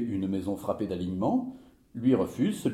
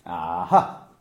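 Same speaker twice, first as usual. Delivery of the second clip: loud "Ah ah", last syllable punched; emphatic, knowing "Ah ah"; "Ah ah" in major; 4 semitones lower, 6 dB louder than usual. Acted. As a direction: repeat "Ah ah" pointedly, hitting the second "ah". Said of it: "Oui, mais en majeur".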